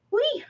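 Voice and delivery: 1 high playful whee. Real, not acted. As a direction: squeal of glee very high. Sudden playful exclamation.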